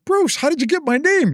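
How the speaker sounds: very high-pitched phone reply; retold surprise. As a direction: act out astonishment at being tracked down.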